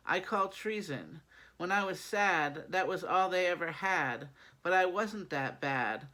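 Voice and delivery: rhythmic spoken-word verse, leaning on each rhyme; poetry recital. Acted. Poet performing own holiday poem for listeners, spoken-word recital.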